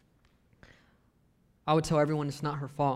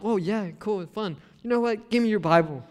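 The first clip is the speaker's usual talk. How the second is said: put-on sarcastic teen; 4 semitones higher, 4 dB louder than usual. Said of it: "And I'm like".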